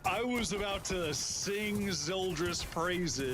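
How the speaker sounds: high, stretched-out excited reaction; excited amazement. Real, not acted. Caster praising a player after an ace, excited. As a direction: gush slowly, pitched well up.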